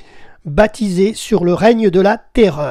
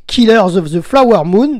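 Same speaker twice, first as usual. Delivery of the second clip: "Killers of the Flower Moon" said in one smooth go with a laugh, in French-accented English; 3 dB louder than usual. Real, not acted. Radio host retries the film title, laughing at his French-accented English. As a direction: laugh it off and nail the title this time. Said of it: "Désolé pour mon accent anglais".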